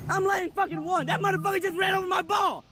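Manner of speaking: real furious shout; angry outburst. Real, not acted. Golfer shouts at the marshal who ran over his ball, furious. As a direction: yell it out in real rage.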